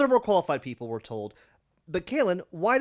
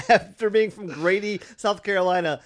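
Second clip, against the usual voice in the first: mock rant; 2 semitones higher, 7 dB louder than usual. Mocking two guys leaving.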